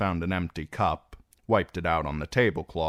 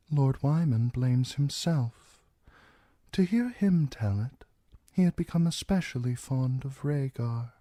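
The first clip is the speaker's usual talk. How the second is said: cold Lord Bolton; 8 semitones higher than usual. Acted. Narrator voices Roose Bolton.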